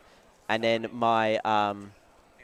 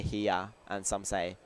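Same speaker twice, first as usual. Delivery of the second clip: two Australian heres; 3 semitones lower, 6 dB quieter, slower than usual. Shown as a demonstration. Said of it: "different ways Australians say it".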